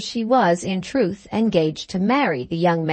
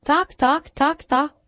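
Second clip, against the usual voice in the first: screaming parrot; 8 semitones higher than usual. A narrator's reading. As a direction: mimic a parrot shrieking one word. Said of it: "screamed the parrot".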